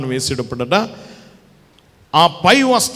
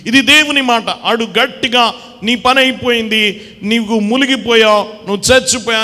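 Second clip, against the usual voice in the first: much higher and louder ringing declaration; loud preaching; 8 semitones higher, 5 dB louder than usual. Acted. Preacher proclaiming God's word, then Satan's loud taunt. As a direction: proclaim it over the crowd.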